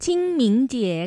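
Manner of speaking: ชิงหมิงเจี๋ย as pronounced in standard Mandarin; Mandarin-style ชิงหมิงเจี๋ย; Mandarin pronunciation. Shown as a demonstration. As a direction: say ชิงหมิงเจี๋ย in Mandarin, with an i vowel in both first syllables. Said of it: "อันนี้เป็นการออกเสียงแบบ".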